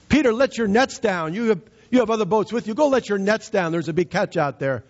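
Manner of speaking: urging Jesus. Retold or imitated. Jesus urging Peter to fish.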